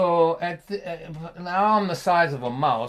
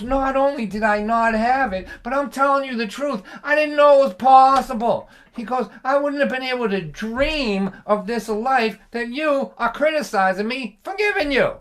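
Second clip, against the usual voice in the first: rising, louder, heartfelt; passionate father; 7 semitones higher, 5 dB louder than usual. Retold or imitated. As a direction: pour it out like a proud father.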